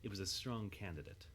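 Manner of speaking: calm storytelling read; story narration. A narrator's reading. Narrator reading a fan story to listeners, calm and even. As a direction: narrate it evenly, like an audiobook.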